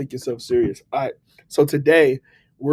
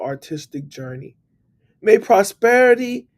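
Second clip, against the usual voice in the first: slow, raised, solemn prayer voice; slower than usual. Acted. Praying for struggling artists, slow and solemn. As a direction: lift them up slowly in prayer.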